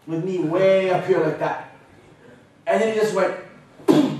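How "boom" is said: high, loud punchy boom; big boom. Retold or imitated. Wrestler dropping him to the mat, a loud high boom. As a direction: slam the word down.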